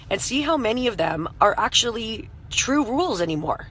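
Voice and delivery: hoarse voice after a night of screaming; rough, strained voice; scratchy voice. Real, not acted. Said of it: "I'm so sorry for my scratchy voice".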